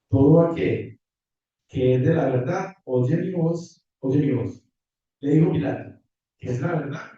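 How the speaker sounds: measured public Bible reading, phrase by phrase; Scripture reading. Acted. Preacher reads the Gospel to the congregation, measured Scripture reading. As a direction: read the passage aloud with clear pauses.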